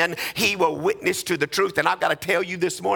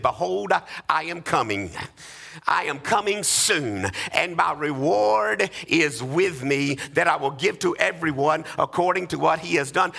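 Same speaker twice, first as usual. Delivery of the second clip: reading scripture. Acted. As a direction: read the words of Christ with weight. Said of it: "It ends with".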